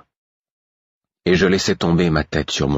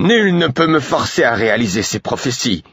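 bawling; 8 semitones higher than usual. Acted. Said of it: "braillai-je".

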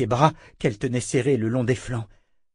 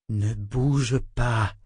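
très lent, posé et rassurant; voix très calme; much slower than usual. Acted. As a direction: pose chaque mot doucement pour ne pas l'effrayer. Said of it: "dit-il d'une voix très calme". (Richard calme Callan couverte de serpents, voix très lente)

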